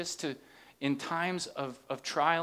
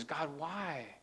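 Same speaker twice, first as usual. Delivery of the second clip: earnest; 6 dB quieter than usual. Shown as a demonstration. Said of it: "Not in anger ... but in earnest".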